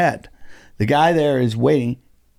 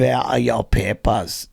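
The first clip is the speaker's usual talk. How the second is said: put-on German accent; 3 semitones lower, slower than usual. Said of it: "That's German, I think".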